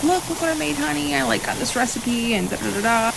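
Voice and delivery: high-pitched imitation of eager excitement; excited showing off. Wife imitating herself showing her husband what she made, excited. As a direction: retell it eagerly, pitched well up. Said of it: "I'd be all excited to show him".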